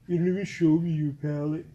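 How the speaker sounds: mock whiny complainer; put-on whiny complaint. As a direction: whine it like a nagging viewer. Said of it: "my whiny voice".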